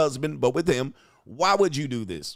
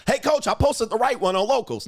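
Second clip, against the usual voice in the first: mock fan voice; 8 semitones higher than usual. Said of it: "Just, you, Locals".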